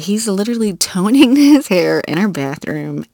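giggles breaking through the words; can't hold back a laugh mid-sentence; laughing while telling. Real, not acted. Telling listeners about her husband toning his hair, laughing.

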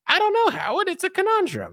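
Robin impression. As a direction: gently push back, trying not to upset him. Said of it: "She's like".

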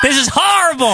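disgusted. Real, not acted. Fan hating the segment, high disgusted cry. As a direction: let the disgust rise. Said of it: "reacting in disgust".

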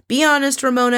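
imitating a housewife lecturing her castmate; mock rant. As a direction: ham up her nagging "Be honest, Ramona".

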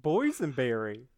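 lightly voiced German accent on Boysenberry; a hint of a German caterpillar saying Boysenberry; German accent impression. Cohost doing a mild German accent of Heimlich. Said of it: "my non-offensive German accent impression of Heimlich".

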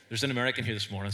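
normal talking voice

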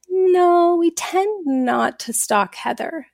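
a hint of a polite shop clerk turning her down. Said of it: "polite smile and was like".

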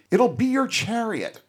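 high-pitched, gushing eagerness; enthusiastic. Retold or imitated. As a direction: imitate a keen devotee, voice leaping up. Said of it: "Sybok very enthusiastically answers".

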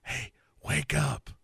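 slow, slightly hushed drawn-out call; mock wake-up call. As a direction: softly rouse someone, slowly. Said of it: "does the, like".

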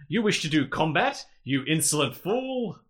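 slow, haughty villainess sneer; lightly voiced imperious alien queen; evil queen. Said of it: "Miria says".

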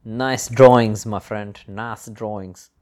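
slow, put-on Indian accent; jokey Indian-accented compliment, loud at first. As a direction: draw it out in a mock Indian accent. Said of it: "stop doing this bloody Indian accent".

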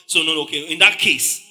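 a hint of flustered crowd reconsidering. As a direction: mull it over aloud like the crowd. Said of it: "They'll be like".

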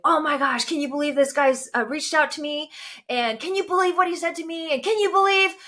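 high-pitched outraged rant, retold; worked-up, incredulous venting; angry ranting. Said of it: "just ranting, and I'm so angry".

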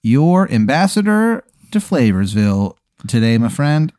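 lightly voiced over-eager server; a hint of a showy waiter's sales spiel; hammy waiter. Waiter pitches Flavorsville to his customer, mildly hammy.

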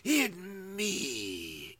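slow, lightly raspy Fierstein Voldemort; Voldemort as Harvey Fierstein. Acted. Host mocks Voldemort in Harvey Fierstein voice. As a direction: intone it like a campy dark lord. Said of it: "Even I don't sound like Harvey Fierstein".

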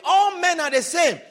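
loud, laughing mock of cynical advice; mocking a bitter parent. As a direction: scoff it out like a jaded mother. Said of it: "give you his or her personal experience".

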